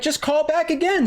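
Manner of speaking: high mock dismissive voice; sarcastic imitation of the brush-off; mocking the tech. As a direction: toss it off in a high parody. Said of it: "they're like".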